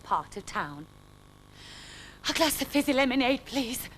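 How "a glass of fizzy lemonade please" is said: gasped desperately. Acted. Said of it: "he gasped desperately".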